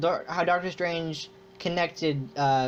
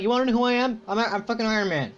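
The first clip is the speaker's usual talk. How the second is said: cocky mock boast, pitched up; Iron Man; 5 semitones higher than usual. Fan mimics the only hero who brags about his identity, cocky. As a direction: imitate a brash hero showing off.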